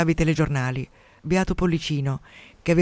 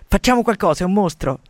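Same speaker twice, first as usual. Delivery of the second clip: raised voice, fed up; exasperated outburst; 4 semitones higher, 5 dB louder than usual. Acted. Father bursts out about his fat son, loud exasperation. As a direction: burst out, demanding action. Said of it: "papà sbottò".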